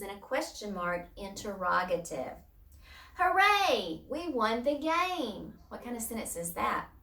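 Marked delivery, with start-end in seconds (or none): 3.2-5.6 acted-out victory cheer for the class; excited exclamation. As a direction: cheer it out, pitched way up. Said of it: "I'm getting excited".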